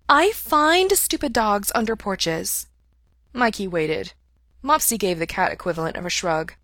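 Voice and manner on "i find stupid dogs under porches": slow, higher, disdainful cat; a cat looking down on the dogs; cat scornfully explaining itself; haughty cat. A narrator's reading. Cat Mopsy speaks.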